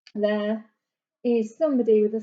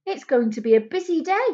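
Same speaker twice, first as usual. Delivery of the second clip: receptionist's voice; 4 semitones higher, 3 dB louder than usual. Acted. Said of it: "says the receptionist".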